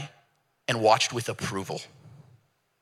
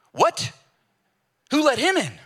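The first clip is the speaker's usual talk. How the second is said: much higher, shocked squeal; outraged disbelief; 13 semitones higher, 3 dB louder than usual. Retold or imitated. Onlooker in heaven shocked the criminal got in, high squeal. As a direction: squeak it out, scandalised.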